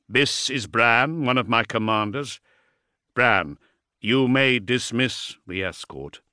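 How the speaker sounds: slow, deliberate lord's voice; commanding Primarch. Acted. Primarch introduces his commander and orders him, deliberate.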